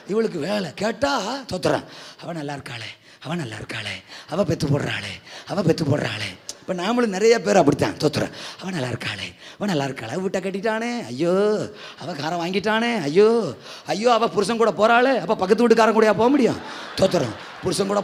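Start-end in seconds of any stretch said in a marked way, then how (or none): 2.2-6.4 low, moaning envious wail as the barren wife; envious whining lament. Retold or imitated. Preacher mimics Hannah envying her rival, low moaning lament. 8.6-15.2 mock envious lament. Believers envying neighbours, mocked.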